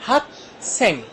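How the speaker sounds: "हक" and "सेंग" as two separated syllables. Shown as a demonstration. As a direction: sound out "हक", then "सेंग". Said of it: "दो syllable से लफ्ज". ("हक सेंग" को दो अलग अक्षरों में)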